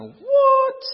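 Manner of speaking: high, loud disbelieving squeak; shocked what. Retold or imitated. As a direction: jump way up on "What?" in sudden disbelief. Staring at huge platform.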